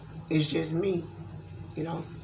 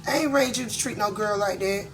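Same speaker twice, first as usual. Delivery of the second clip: tearful mother; 6 semitones higher than usual. Retold or imitated. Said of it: "she said".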